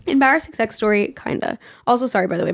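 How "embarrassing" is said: raspy, worn-out voice; hoarse voice. Real, not acted. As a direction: talk through a lost voice. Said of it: "my voice is not coming back".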